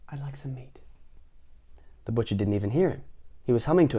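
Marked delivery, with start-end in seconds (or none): 0.1-0.8 very soft timid request; whisper. Acted. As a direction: whisper to the butcher. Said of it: "he whispered".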